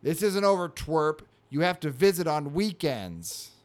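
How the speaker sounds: a touch of cartoon indignation; lightly acted finger-wagging cat; mock scolding. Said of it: "shaking a finger at it, going".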